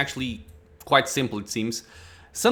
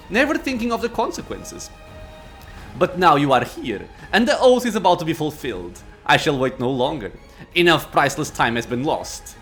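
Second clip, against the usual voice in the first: arrogant lich. Acted. Lich speech.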